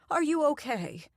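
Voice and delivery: put-on worried old woman checks on her; concerned old lady. A narrator's reading. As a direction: fret over her like a grandmother. Doreen concerned.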